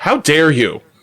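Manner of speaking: fake indignant outrage in a childlike put-on voice. Retelling what the youngest says after a red shell hit: imitating my youngest's mock outrage. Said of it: "she also says a lot of "How dare you"".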